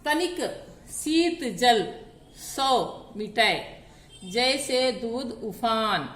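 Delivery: unhurried, rhythmic reading of the second doha; slow couplet recitation. Shown as a demonstration. Teacher reading the second doha aloud to students, slowly. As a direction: read the couplet slowly and evenly. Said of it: "देखिए".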